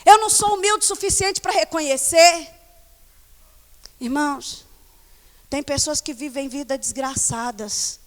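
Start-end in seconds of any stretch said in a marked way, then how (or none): 0.0-2.5 confessing to God. Retold or imitated. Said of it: "de ir diante de Deus e falar".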